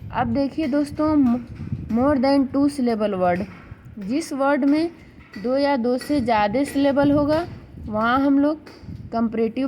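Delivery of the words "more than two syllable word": very slow, each word set apart; slow dictation. Shown as a demonstration. Teacher reading a rule heading aloud, very slow. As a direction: lay the heading down slowly for notes.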